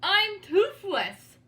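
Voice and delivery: slow, high, loud wail; wailing lament. Acted. George wailing that he is toothless, slow and loud. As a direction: drag it out in despair. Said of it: "George moaned".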